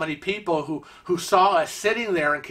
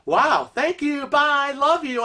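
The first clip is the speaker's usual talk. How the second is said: gushing goodbye; 9 semitones higher, slower than usual. Retold or imitated. Happy thanks after quick check-in.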